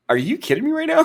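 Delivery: high, laughing mock outrage; laughing disbelief. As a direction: laugh through the question in disbelief. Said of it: "I was just like".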